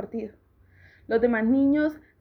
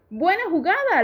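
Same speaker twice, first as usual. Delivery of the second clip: louder, higher call across the yard; cheering call; 6 semitones higher, 4 dB louder than usual. A narrator's reading. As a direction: cheer your friend on from afar. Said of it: "Sam le gritaba". (grito de ánimo a un amigo)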